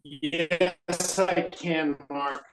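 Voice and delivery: ordinary talk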